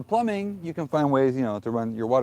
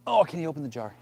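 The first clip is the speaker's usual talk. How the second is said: helpless damsel voice; 4 semitones higher, faster than usual. Pretend. Mock helpless plea about jar.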